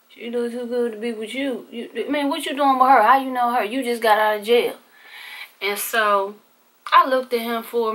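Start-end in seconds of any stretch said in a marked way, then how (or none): 0.1-4.8 higher, needling disbelief; skeptical dad. Retold or imitated. Dad doubting his daughter could get this girl, needling. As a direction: poke at her, doubting.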